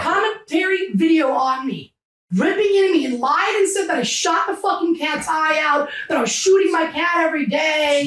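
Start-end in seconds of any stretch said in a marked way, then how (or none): 2.4-8.1 worked-up, indignant venting, pitch climbing; getting emotional. Real, not acted. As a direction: get heated as you recount the accusation. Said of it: "I'm sorry if I'm getting emotional".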